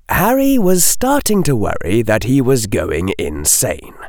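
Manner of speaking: usual speaking voice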